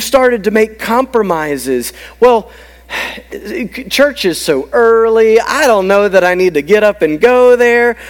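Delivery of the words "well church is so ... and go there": mock reluctant churchgoer, pitched up; reluctant excuse. Churchgoer talking himself out of going, mock reluctant. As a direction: whine lightly through a lame excuse.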